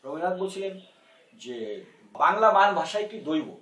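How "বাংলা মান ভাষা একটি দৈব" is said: formal quotation. Retold or imitated. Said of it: "কোট unquote".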